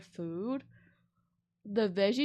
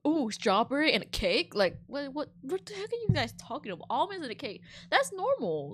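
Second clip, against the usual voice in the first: incredulous; 5 semitones higher than usual. Real, not acted. Mocking guests' dessert complaint.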